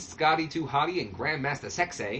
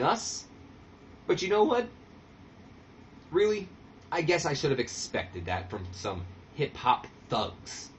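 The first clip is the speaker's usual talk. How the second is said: Disco trash talk. Retold or imitated. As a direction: sneer at the rivals like a heel on the mic. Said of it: "Disco comes out and he says".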